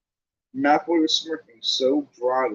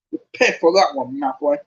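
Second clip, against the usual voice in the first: loud, angry yell; 4 dB louder than usual. Acted. Ron yells at Malfoy, drawing his wand, angry. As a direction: shout the threat.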